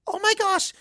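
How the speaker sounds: high burst of glee; excited squeal. Acted. Pony struck by a wild plot idea, high squeal. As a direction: shriek it as the idea hits.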